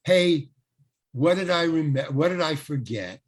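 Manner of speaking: loud "hey", then an easy question; lightly acted old hand, sure of himself; cocky wise guy. Actor to script lady expecting one missed line, mock wise guy. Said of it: "Mister Wise Guy, Mister Been Around".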